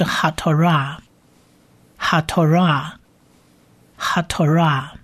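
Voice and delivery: 哈托拉 repeated as a whole word, syllables ha-to-ra joined; whole-word pronunciation demo. Shown as a demonstration. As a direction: model 哈托拉 for learners, evenly, with pauses between repeats. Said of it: "整个字合起来就是哈托拉". (示范整词连读哈托拉，停顿后重复)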